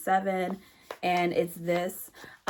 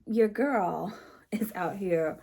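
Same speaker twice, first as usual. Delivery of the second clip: whisper; slower than usual. Real, not acted. Playful confiding brag to viewers.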